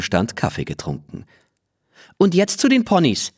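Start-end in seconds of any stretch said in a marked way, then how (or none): 2.2-3.3 aufgeregter Ruf. A narrator's reading. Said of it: "ruft Lene".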